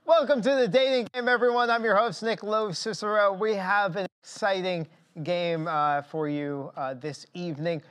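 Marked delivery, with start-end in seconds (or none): 0.0-6.7 upbeat game show host welcome. Acted. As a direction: announce it like a TV dating show host.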